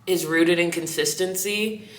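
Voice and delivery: slight lisp from whitening strips. Real, not acted. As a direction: talk with whitening strips on teeth. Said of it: "You hear this lisp? I got teeth whitening strips in".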